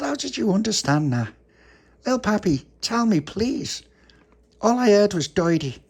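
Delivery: high puzzled voice. Acted. Tony's puzzled question.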